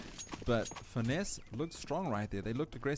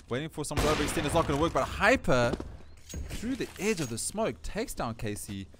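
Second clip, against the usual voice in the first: pitched-up commentary on a sudden play; live play-by-play; 5 semitones higher, 6 dB louder than usual. Acted. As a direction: punch up the player's move, louder. Calls live esports play.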